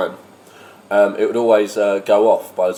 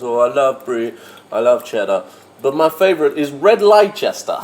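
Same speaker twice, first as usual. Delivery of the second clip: put-on Lithuanian accent; 2 semitones higher than usual. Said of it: "She goes".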